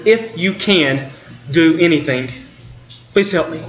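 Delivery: doubtful plea. Retold or imitated. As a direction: let doubt drag through the request. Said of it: "That phrase is just dripping with doubt".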